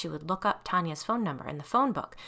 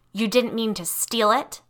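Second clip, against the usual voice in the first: sharp, louder, scornful question; barked; 3 semitones higher, 6 dB louder than usual. Acted. Wronged girl snapping at the thief, angry. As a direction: bark it back in disbelief. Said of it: "Tanya barked".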